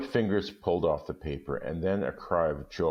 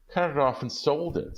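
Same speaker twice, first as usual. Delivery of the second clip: put-on much higher, eager young wife voice; higher-pitched wife pleading with her husband; Della insisting; 10 semitones higher than usual. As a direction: say it fast to get it over with. Della answers Jim, pitch up.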